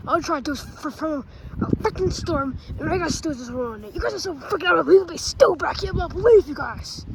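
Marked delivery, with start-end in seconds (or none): 3.9-7.0 fast, heated rant at the friends; angry rant. Acted. Character ranting at friends, exasperated and fast. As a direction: blow up at them in frustration.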